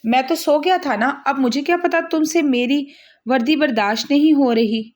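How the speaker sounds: enjoy needling her; amused teasing. Acted. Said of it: "मज़े से कहकर". (मज़े लेते हुए छेड़ने वाले अंदाज़ में)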